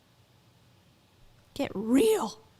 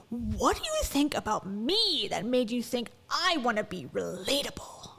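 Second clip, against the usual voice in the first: imitated girl-boss stage voice; mock commanding motivational-speaker voice; Rachel Hollis's Toiletgate voice. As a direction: act in charge on stage, sinking to a whisper at the end. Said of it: "I'm in charge voice that she uses".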